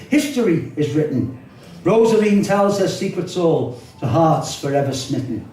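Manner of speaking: lyrical, flowing verse reading; poem recital. Acted. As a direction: recite it fondly, letting the lines roll. Reciting poem about the Mersey.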